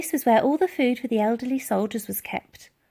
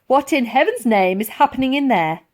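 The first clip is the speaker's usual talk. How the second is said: calling through door; 4 semitones higher, 7 dB louder than usual. Acted. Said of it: "came a female voice".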